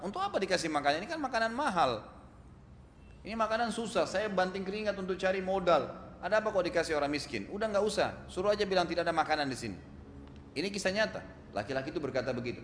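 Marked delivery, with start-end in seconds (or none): 0.0-9.8 higher-pitched retold angry outburst; angry husband. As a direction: act out a husband indignantly refusing to share food. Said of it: "Suaminya tiba-tiba marah".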